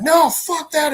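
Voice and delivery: high, strained villain outburst; acted angry refusal. Villain rejects heroes' explanation, acted angry outburst. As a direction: throw it back as a mock-furious villain.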